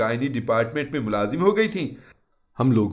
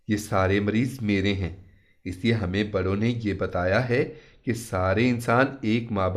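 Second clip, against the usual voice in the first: maulvi's calm words; 3 semitones lower than usual. Retold or imitated. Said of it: "मौलवी साहब ने कहा".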